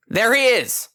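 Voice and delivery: loud high shout spotting him; enforcer shouts. A narrator's reading. Enforcer spotting the fugitive, high loud shout. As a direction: call it out loud and sharp. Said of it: "an enforcer shouts".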